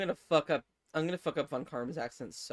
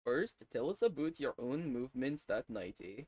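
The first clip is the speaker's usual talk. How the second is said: put-on Canadian accent; 2 semitones lower, 4 dB quieter than usual. Player echoing the questioner's line, mock Canadian accent. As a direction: echo the line as a Canadian, "aboot" and "eh". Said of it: "Yo, he's Canadian".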